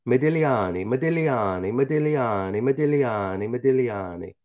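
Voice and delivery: Modigliani repeated in an even singsong run; rapid repetition. Shown as a demonstration. Host shows listeners the tricky name, tongue-twister repetition. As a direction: roll MODIGLIANI out over and over without a gap. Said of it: "Say that ten times. Go ahead".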